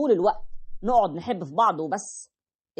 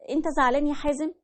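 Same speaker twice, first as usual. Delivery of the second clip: higher coaxing wife voice; sweet-talking wife; 7 semitones higher, faster than usual. Retold or imitated. Wife voiced softly asking. (الزوجة بتسأل بدلع)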